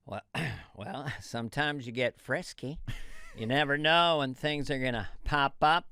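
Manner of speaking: George Bush Senior. Acted. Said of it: "Doctor Phil versus George Bush Senior".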